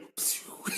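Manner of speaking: quick unvoiced whooshing spray noise; imitated water spray. Telling friends how the cinema rains on you, imitated spray. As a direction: make the sound of a sudden spray.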